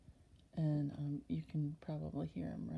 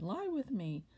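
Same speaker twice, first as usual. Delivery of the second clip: lightly voiced temptress, higher pitch; insistent master's wife; 4 semitones higher, 4 dB louder than usual. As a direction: lift the plea above the narration. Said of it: "She caught hold of him".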